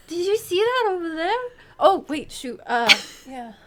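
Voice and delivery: high, sudden excited chatter; distracted excitement. Pretending to be stoic, then blurting out, high and excited. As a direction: break the cool act with excitement. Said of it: "I would be like".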